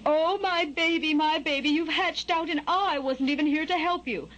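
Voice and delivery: high, fretful mother bird; high-voiced, upset bird mom; disappointed mother bird. A narrator's reading. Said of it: "The mother bird was clearly disappointed".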